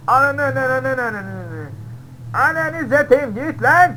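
high loud scared shout at the tiger; startled shouting to shoo an animal; panicked yell. Real, not acted. Yells at a tiger in game.

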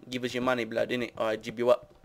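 lightly put-on British street slang; rough UK street talk. Shown as a demonstration. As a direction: imitate a UK mugger, understated. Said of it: "We speak like".

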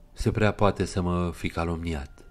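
slow, dark brooding; darkly. Acted. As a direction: say it heavily, lost in thought. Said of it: "spuse el întunecat". (întunecat, rar)

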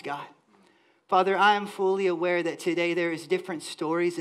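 pastor's measured prayer. Real, not acted. Leads the congregation in prayer.

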